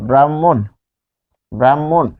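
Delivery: ব্রাহ্মণ as "bram-mon"; long m in ব্রাহ্মণ, h silent; doubled m. Shown as a demonstration. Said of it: "দুইবার উচ্চারিত হচ্ছে".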